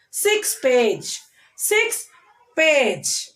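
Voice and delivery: put-on slow pairs, stressing fash, min, me and page in old fashioned, fifteen minute, ten meter, six page; deliberate word-by-word model of old fashioned, fifteen minute, ten meter, six page; stress on the second word. Shown as a demonstration. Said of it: "stressing on the first syllable of the second word".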